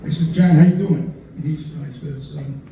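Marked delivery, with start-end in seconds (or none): 0.3-1.1 louder, hearty Chicago-style how you doing; a loud, friendly how you doing; hearty greeting. Retold or imitated. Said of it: "That's what we say, how, how you doing?".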